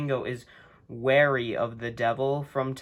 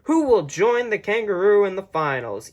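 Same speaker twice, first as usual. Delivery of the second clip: higher, louder announcer question; hyped announcer; 6 semitones higher, 6 dB louder than usual. Real, not acted. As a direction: tease the next match.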